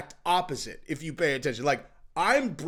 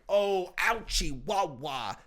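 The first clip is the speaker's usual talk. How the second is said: mock hurt; 3 dB louder, much slower than usual. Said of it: "he's just like".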